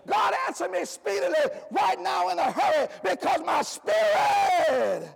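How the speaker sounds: rising, urgent cries to God; fervent pleading prayer. Acted. A preacher voicing a desperate believer begging God, urgent. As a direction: beg God for an answer right now.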